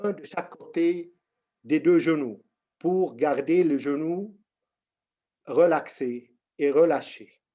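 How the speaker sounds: slow, measured instructions with long pauses; unhurried meditation teacher, pausing often; guided meditation. Real, not acted. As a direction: guide them into the posture slowly, phrase by phrase.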